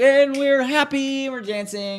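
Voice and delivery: high, loud, giddy mock voice; goofy high voice. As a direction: play a giddy fool hiding something. Mocking distracted happy people.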